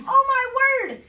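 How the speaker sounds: loud, theatrical cry of alarm; scream. Acted. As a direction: cry out in dramatic horror. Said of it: "I screamed".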